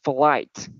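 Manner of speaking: "Flight" ending on a released T; pronounced final T. Shown as a demonstration. Teacher reminds students of the letter T, final T pronounced. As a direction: say "Flight" and let the T be heard. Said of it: "Just remember the letter T".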